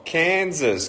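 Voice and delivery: "Kansas" called out high and bright; high excited call of "Kansas"; excited shout-out. Real, not acted. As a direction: greet the state eagerly. Calling out viewer locations.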